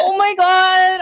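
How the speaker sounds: high, slow oh my God; stunned, drawn-out disbelief; high, slow, overwhelmed oh my God; overwhelmed gasp. Retold or imitated. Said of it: "I was like".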